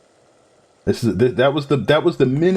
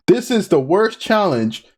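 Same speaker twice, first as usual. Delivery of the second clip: dismayed; 9 semitones higher than usual. Real, not acted. Dreading a new hard challenge.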